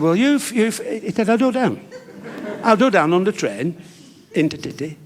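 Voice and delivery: stammering. Retold or imitated. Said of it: "Freddie stammered a bit".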